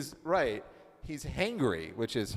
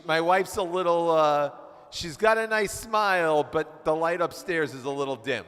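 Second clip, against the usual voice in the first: mocking husband; 3 semitones higher, 7 dB louder than usual. Husband complaining about his wife.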